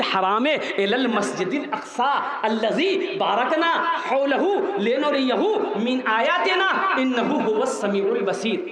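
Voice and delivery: measured melodic Arabic recitation; Quran recitation. Real, not acted. Preacher reciting scripture to the congregation, chanted recitation. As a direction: recite the verse with lilting cadence.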